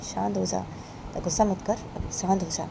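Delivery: gently calm her down; quiet reassuring friend; soothing friend. Acted. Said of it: "बानी की friend बानी बोलती है".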